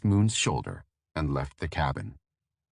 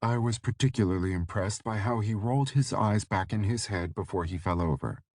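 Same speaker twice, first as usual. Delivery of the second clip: tired and dry; 3 semitones higher than usual. Acted. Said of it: "her voice tired but dry".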